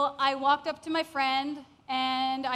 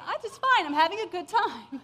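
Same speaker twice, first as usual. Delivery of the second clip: higher, louder blurt; 4 semitones higher, 3 dB louder than usual. Retold or imitated. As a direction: announce it brightly to the guards. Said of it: "that's what came out of my mouth".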